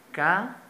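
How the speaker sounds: "Ca-sa" in two parts with a long gap; split into syllables. Shown as a demonstration. Teacher repeating the example in syllables, "Ca-sa" with a pause between. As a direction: separate "Ca-sa" syllable by syllable, slowly. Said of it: "Lo separamos en sílabas".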